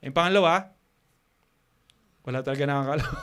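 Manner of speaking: ordinary talk, nothing marked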